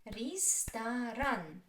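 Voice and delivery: "Ресторан" slowly, in three separate syllables. Shown as a demonstration. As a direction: draw out each syllable of "Ресторан". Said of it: "Which is stressed?".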